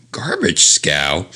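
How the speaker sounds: "Garbage scow?" slow with a quizzical rise; bemused repeat of the quaint phrase; puzzled echo. Real, not acted. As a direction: question the odd phrase.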